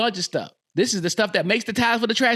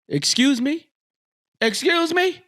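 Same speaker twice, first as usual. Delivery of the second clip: rising, disbelieving double take; mock outraged disbelief; incredulous excuse me; 7 semitones higher than usual. Real, not acted. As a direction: act shocked, pitch climbing. Mock outrage at missed dunk.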